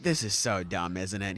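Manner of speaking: low and soft; understated, dropped-voice grumble; mock confiding aside. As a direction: share a quiet private eye-roll. Retold private aside between two.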